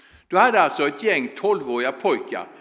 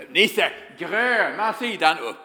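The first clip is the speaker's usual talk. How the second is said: drawn out, lightly voiced foreign coach; a hint of the broken-Swedish coach calling; slow mock coach call; slower than usual. Coach calling to Nisse again and again, slow mock call. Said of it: "skriker han gång på gång".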